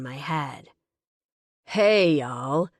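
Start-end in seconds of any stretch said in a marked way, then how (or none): 1.7-2.7 loud call to the crowd. Acted. Bearded man calls the wedding crowd for a toast, loud. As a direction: call out to get everyone's attention. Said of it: "calls a tall".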